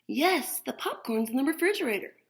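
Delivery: a hint of a brisk mother, fast; lightly voiced mom answering quickly. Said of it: "Mom says".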